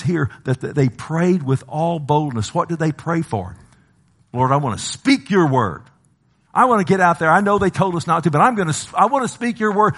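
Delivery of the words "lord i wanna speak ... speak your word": raised, eager pleading to God; bold prayer. Acted. Believers pray to the Lord for boldness, fervent and eager.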